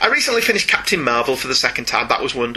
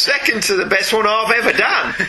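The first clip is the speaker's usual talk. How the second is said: mock Australian accent, pitched up; 5 semitones higher than usual. Shown as a demonstration. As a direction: brag in put-on Australian. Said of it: "my Australian accent is excellent".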